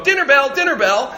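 mock dinner-bell call; bear calling dinner. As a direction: call it out like announcing a meal. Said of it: "Some bear's gonna go".

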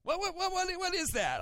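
high-pitched, rapid "what what what"; mock bewildered. Pastor mocking his own reaction to a scribble, high and baffled. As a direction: sputter in fake confusion at a child's drawing. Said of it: "I go".

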